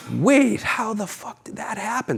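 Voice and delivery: high pitched, stunned disbelief. Retold or imitated. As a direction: gasp it out, baffled. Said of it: "you're like".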